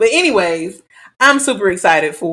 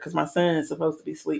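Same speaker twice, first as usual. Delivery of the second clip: whispering; 4 semitones lower, 10 dB quieter than usual. Real, not acted. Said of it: "I have to whisper this part".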